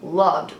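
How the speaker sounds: loved drawn out slowly; stress on loved. Real, not acted. Correcting himself about Giannis's speech, loved stressed slowly. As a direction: lean slowly on the word loved. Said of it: "I mean, loved".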